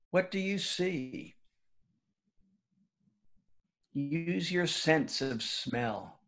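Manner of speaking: calm, measured meditation leader with long pauses; guided meditation. Real, not acted. Former teacher inviting the school community to settle in, guided meditation. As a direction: gently guide listeners inward, leaving room between phrases.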